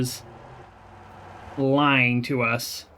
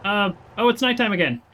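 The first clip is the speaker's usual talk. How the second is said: surprised; 7 semitones higher than usual. Real, not acted. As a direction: groan in surprise at nightfall. Reacting to game nightfall.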